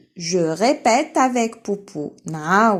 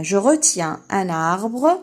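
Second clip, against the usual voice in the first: slow, louder model sentence; 4 dB louder, much slower than usual. Shown as a demonstration. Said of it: "teacher models sentence".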